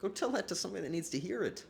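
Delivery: mock outrage. Mock angry reply to compliment.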